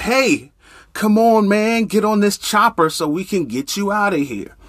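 yelling out. Acted. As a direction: shout down over the rotor noise. Rescuer yells from chopper.

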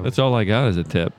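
talking through a mouthful of food; words round a bite of food; mouth full. Real, not acted. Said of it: "Dan didn't have his mouth full".

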